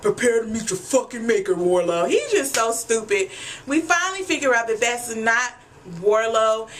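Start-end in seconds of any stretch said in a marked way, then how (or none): 0.0-2.1 crunk challenge. Retold or imitated. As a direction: play him hyped up and picking a fight. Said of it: "He all crunk".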